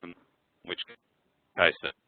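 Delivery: choppy, stretched call audio; glitchy robotic call dropout; breaking up audio. Real, not acted. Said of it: "your audio is breaking up extremely badly".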